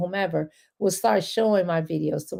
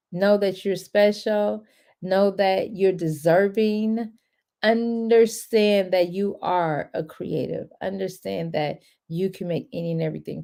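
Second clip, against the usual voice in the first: slow affirmations. Real, not acted. Affirmations to viewers.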